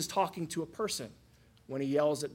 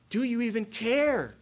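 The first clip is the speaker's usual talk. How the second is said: higher, sharp accusing question; accusing rebuke; 6 semitones higher, 3 dB louder than usual. Retold or imitated. Disciples rebuking the sleeping Jesus, accusingly. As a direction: demand to know if he cares. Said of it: "kind of impugns his character".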